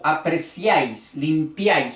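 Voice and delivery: apreciáis, limpiáis, each ending -iáis as one syllable; triphthong in one beat. Shown as a demonstration. Teacher demonstrates triphthongs, saying -iáis in apreciáis, limpiáis as one stressed syllable. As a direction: glide through -iáis in one stroke. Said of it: "en un solo golpe de voz va el triptongo".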